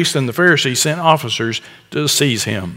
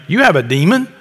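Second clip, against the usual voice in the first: incredulous crowd, rising. Retold or imitated. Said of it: "the crowd answered him".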